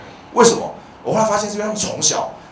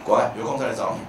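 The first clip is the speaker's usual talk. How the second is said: casual brush-off; 7 semitones lower, 6 dB quieter than usual. Retold or imitated. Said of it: "年轻妹妹就是这样".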